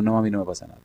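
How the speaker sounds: soft, mild answer; imitating a calmed-down daughter; calm reply. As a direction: quietly brush off mother's worry. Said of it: "llegó tranquila".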